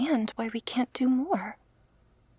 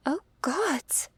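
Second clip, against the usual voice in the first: higher, shaky horrified cry; 4 semitones higher than usual. Acted. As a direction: recoil in horror. Sees a severed arm.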